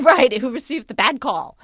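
laughing while agreeing; chuckling through the line. Real, not acted. Laughing at shared joke.

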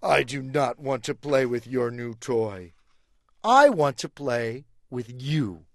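slow and heartfelt; sincere elephant. Acted. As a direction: say it with heartfelt conviction. Elephant sincerely chooses friendship.

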